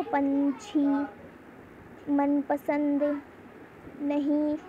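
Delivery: पंछी, मनपसंद, नहीं one by one, nasal n held slowly; nasal anusvara pronunciation. Shown as a demonstration. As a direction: teach the nose sound in पंछी, मनपसंद, नहीं word by word. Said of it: "वो हमारी नाक से बोला जाता है". (पंछी, मनपसंद, नहीं को नाक से, रुक-रुक कर बोलना)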